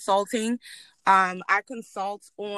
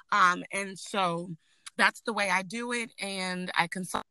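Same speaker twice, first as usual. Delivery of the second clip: breaking up. Real, not acted. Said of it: "It's breaking up".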